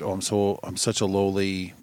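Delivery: ashamed. Retold or imitated. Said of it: "Satan would love it if you felt so ashamed".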